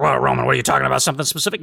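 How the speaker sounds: lightly imitated suspicious listener; imagined challenging listener. Listener interrupts the host over his hints, lightly mimicked challenge. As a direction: pipe up as a doubting listener. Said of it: "Somebody out there's gonna be like".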